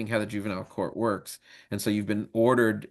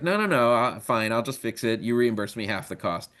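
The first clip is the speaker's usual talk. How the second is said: annoyed. Acted. God giving in to the devil over the broken gate, mildly annoyed. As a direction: give in with a touch of annoyance. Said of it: "God gets annoyed".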